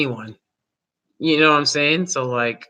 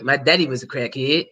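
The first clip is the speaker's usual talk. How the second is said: a light, understated take on a rapper's interview line; imitating a rapper; 2 semitones lower than usual. Vlogger mimicking a rapper's interview line for viewers, lightly imitated. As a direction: quote his line the way he said it, barely shifted from your own voice. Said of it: "That's literally what he said".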